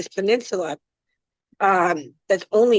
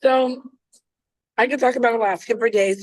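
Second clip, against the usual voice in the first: talking while chewing; mouth full; 2 semitones higher than usual. Real, not acted. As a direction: speak through a bite of food. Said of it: "Sorry, I'm chewing".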